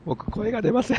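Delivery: hoarse, strained voice; speaking through a raw throat. Real, not acted.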